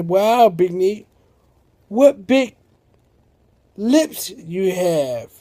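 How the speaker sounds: rising awe on big, then slow; slow wondering. Acted. Sammy marvels at Big Neat's lips, slow and awed. Sammy voiced in Red Riding Hood parody.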